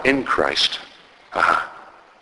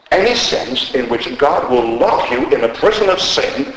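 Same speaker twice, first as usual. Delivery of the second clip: raised, insistent preaching; forceful pulpit delivery; powerful, emphatic; 5 semitones higher, 3 dB louder than usual. Retold or imitated. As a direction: drive each phrase home with rising pitch. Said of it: "in a powerful, emphatic way".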